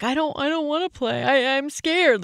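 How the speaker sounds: mother imitating her nervous seven-year-old; imitating scared child. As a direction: mimic her son refusing to play. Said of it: "he starts crying and he's like".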